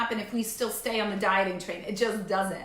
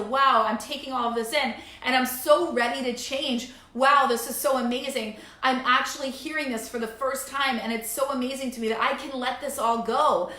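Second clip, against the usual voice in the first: mock excitement. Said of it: "to, Wow".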